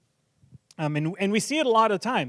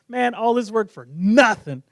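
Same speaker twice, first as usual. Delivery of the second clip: slow retold complaint, pitched up; exasperated dad; 4 semitones higher, 4 dB louder than usual. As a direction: grumble it like a dad after wasted effort. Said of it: "He's like".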